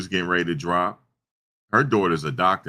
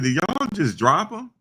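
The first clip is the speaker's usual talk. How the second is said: high, slow, alarmed disbelief; shocked question; 13 semitones higher, 3 dB louder, slower than usual. Retold or imitated. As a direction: retell the aunt's horrified question slowly and high. Aunt alarmed at baby dropped.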